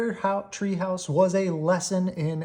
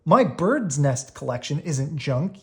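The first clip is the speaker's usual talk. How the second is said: mock yell. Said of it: "yelled Brother at the top".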